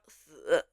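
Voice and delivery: "th" as a hissed syllable in a low third tone. Shown as a demonstration. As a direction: demonstrate "th" in the dipping Mandarin third tone. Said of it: "in the third tone".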